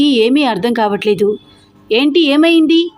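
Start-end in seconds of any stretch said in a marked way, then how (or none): 1.9-2.9 raised, louder and sharply alarmed; high startled call over a crowd; alarmed question. Acted. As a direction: burst in asking what happened. Vicky rushes into the riot.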